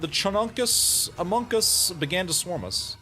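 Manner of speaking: high cute narrator voice; uwu voice. Acted. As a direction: read the battle line in a sugary high voice. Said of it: "Another uwu voice".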